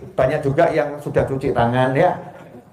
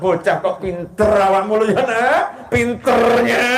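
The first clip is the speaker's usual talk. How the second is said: 1 mock angry parent; 4 semitones higher than usual. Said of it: "Marahnya sama anak".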